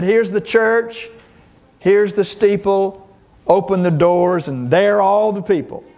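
put-on children's rhyme, wrong version. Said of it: "we did it like this".

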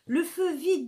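high, loud alarmed shout; urgent shout. A narrator's reading. Raoul warns the others that the church is burning, urgent shout. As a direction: raise the alarm at once. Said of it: "dit Raoul".

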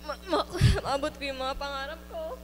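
laughing through tears; stammering while crying. Real, not acted.

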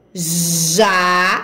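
"Janela" broken into JA, NE, LA with long pauses; syllable by syllable. Shown as a demonstration. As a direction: sound out "Janela" slowly, one separate syllable at a time. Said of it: "Vamos fazer a leitura?". ("Janela" lido sílaba por sílaba, com pausas entre JA, NE e LA)

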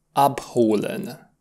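Abholen said slowly and softly; slow repeat. Shown as a demonstration. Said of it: "vom spune".

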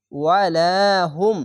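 slow ওয়ালাহুম with লা held long; one-alif stretch. Shown as a demonstration. Teacher modelling the rule, ওয়ালাহুম drawn out. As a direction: draw out লা in ওয়ালাহুম, close on হুম. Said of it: "এক আলিফ টেনে পড়বেন".

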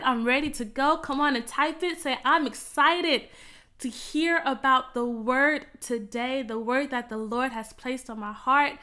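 rising and falling prayer, hushed at each God; fervent prayer. Real, not acted. Worship leader praying over music.

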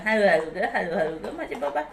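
low, soothing pet talk; tender coaxing. Real, not acted. Coaxing pet to eat slowly.

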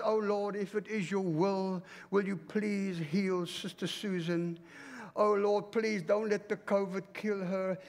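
mock a timid, begging prayer. Church member begging God to heal Sister Susan, meek plea. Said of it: "Why are you begging God".

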